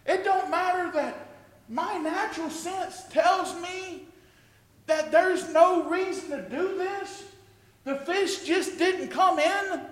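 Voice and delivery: rising faithful resolve. Retold or imitated. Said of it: "you know what he says".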